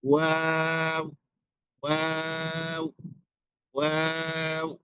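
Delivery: "ওয়াও" drawn out very slowly with rounded lips; slow letter demo for learners; rounded waw. Shown as a demonstration. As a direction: stretch "ওয়াও" into a long rounded vowel. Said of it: "ওয়াও উচ্চারণের সময় আমাকে খেয়াল করুন".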